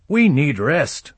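high, drawn-out complaint; slow, whiny protest. Acted. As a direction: drag the words out in weary objection. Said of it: "One Eye protested".

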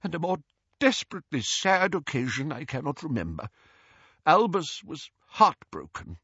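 high, grieving recollection; tremulous old friend in sorrow; trembling lips. A narrator's reading. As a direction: recall it tearfully, pitched high. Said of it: "said Doge through trembling lips".

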